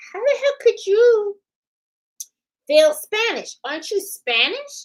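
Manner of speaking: high, loud incredulous question; mock disbelief. People asking in disbelief.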